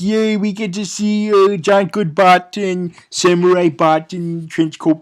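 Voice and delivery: half-hearted fan cheer; mock cheer. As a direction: cheer it with put-on glee, easing off. Mock cheer about the sequel.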